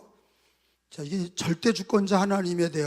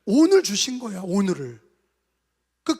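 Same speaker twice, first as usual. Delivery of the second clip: ordinary talk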